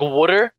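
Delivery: water said as wooder, Philly style; water with the Philly d sound, wooder. Shown as a demonstration. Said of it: "I say water as in".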